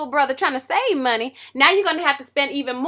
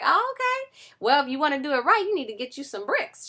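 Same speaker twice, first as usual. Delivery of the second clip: Home Depot guy; 4 dB quieter than usual. Acted. Home Depot guy voiced in story.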